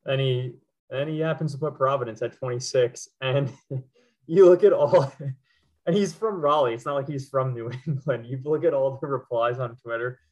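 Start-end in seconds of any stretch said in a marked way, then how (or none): 3.2-8.3 words broken by real laughter; laughing hard. Real, not acted. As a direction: laugh through it, barely holding together. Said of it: "Sorry, I'm laughing so hard".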